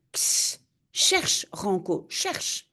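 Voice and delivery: hissed whispered command to the gorilla; urgent whisper. Acted. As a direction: whisper the order to the ape. Man urging gorilla to search.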